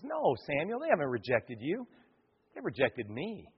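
God. Acted. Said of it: "And God looks and says".

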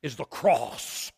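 put-on deep-woods North Carolina accent; Billy Graham. Preacher quotes Billy Graham on his message, North Carolina accent. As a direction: imitate a North Carolina evangelist's backwoods speech. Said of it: "In his North Carolina deep woods accent".

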